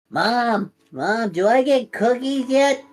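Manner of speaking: put-on a small boy begging for cookies; whiny little kid. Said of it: "he's just like".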